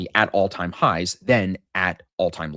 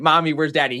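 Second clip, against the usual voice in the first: higher, louder kid imitation; teasing three-year-old; 6 semitones higher, 5 dB louder than usual. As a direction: pester mom like a small child. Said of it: "he kept doing it".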